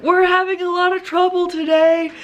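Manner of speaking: high, drawn-out mock yell; retold yelling. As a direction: call slowly over the chaos, acting it out. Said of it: "I'm, like, having to yell".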